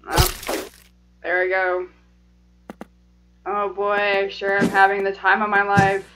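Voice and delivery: low, subdued sarcastic monotone; deadpan sarcasm. Real, not acted. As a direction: feign enjoyment with no energy at all. Sarcasm about repeatedly dying.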